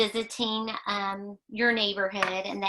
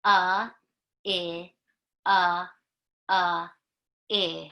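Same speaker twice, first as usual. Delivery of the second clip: alien talk; 3 dB louder, slower than usual. Pretend.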